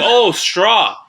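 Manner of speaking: high, loud mock realisation; mom's put-on high voice, suddenly corrected; imitated mom. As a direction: blurt it out as mom finally catching on. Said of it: "she's like".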